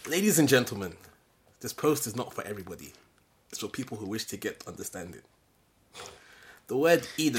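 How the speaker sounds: dry, mocking announcement; sarcastic reading. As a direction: read it with a sneer. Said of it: "he reads it sarcastically".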